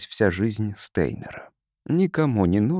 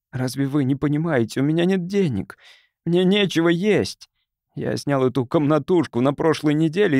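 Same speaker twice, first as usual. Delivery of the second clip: higher, pleading and urgent; desperate plea; 5 semitones higher than usual. Acted. Jobless man begs the caseworker for aid, desperate and high. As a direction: beg the official, voice climbing.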